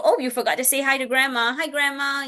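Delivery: friendly modeled reminder; encouraging prompt. Acted. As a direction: lightly act a parent prompting a child. Models gentle prompt to child.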